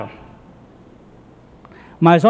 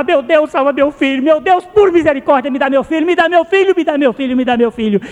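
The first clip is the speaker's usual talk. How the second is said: higher, pleading mock cry to God; imitating a frantic plea, not fully shouted; retold desperate cry; 7 semitones higher than usual. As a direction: relive the father begging for his son. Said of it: "e eu gritava".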